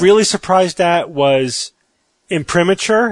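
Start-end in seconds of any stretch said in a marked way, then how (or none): 2.3-3.1 imprimatur as im-PRIM-uh-cher; imprimatur, higher, with a "ch" in the last syllable. Shown as a demonstration. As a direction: end imprimatur like "-ature". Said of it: "ever heard of the word imprimatur".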